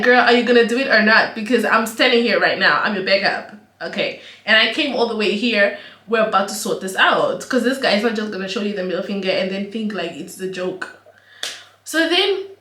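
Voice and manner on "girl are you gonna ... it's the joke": hyped-up urging. Retold or imitated. Urging sister to act, retold.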